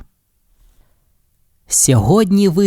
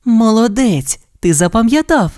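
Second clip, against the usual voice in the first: praising; 9 semitones higher than usual. A narrator's reading. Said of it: "похвалила синочка мама Зая".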